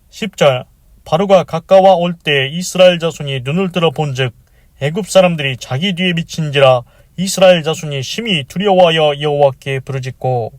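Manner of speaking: measured, projected Bible reading; reciting a Bible verse aloud; scripture reading. Acted. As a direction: read the verse out formally to a congregation.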